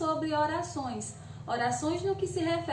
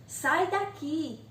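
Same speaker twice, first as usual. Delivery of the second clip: imperative; 2 semitones higher, much slower than usual. Shown as a demonstration. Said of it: "está no imperativo".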